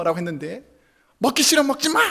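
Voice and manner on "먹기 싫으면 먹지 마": wife's raised retort, pitch up; wife yells back at husband over dinner; mock yell. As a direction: shout it back in a huff. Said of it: "라고 소리를 질렀으면".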